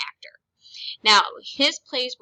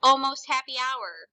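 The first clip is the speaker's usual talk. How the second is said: happy; 3 semitones higher, 3 dB louder than usual. Shown as a demonstration. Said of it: "is happy".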